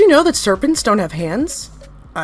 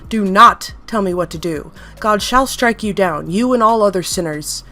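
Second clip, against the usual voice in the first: menacing threat. Acted. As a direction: promise them hellfire. Entity threatens divine wrath.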